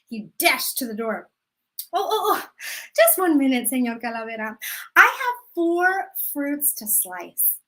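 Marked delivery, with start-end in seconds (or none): 1.9-7.6 grandma stalling. Acted. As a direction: sweetly beg for one more minute. Grandma stalling Death again.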